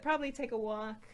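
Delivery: ordinary delivery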